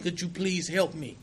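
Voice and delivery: softly, barely above a murmur; a hushed, humble prayer; quiet plea to God. Retold or imitated. Retold prayer through tears.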